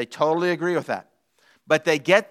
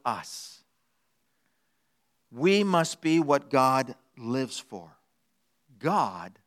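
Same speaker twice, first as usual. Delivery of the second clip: lightly voiced cat, slow and deliberate; a hint of smug cat, lowering and softening to the end; self-centred cat; 4 semitones lower, 4 dB quieter, slower than usual. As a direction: spell it out slowly, sinking to a hush. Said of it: "So what they do say is this".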